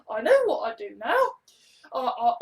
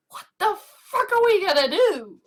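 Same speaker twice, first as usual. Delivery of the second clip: louder, higher mock panic; exasperated outburst; 6 semitones higher, 6 dB louder than usual. Dramatic episode intro, loud mock panic.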